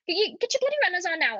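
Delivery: high, fast Welsh mum scolding, bloody stressed; Welsh mum accent. Retold or imitated. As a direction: bark it like a Welsh mum hurrying a kid. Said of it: "that's the best Welsh accent I can do".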